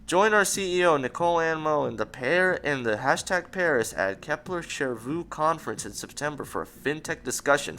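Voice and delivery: hammed-up promo voice; mock promo read. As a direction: read it like a corporate ad. Rereading bio mockingly.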